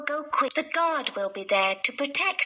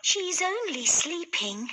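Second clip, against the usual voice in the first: higher, gentle fairy voice; lightly voiced fairy; Poppy Fairy; 5 semitones higher than usual. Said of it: "the Poppy Fairy reminded them".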